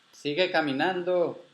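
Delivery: high, slow, stretched-out call. Acted. Grandfather guiding the unseen grandchild onward, calling out. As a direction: send the words down a tunnel, drawn out. Grandfather calls directions through cavern.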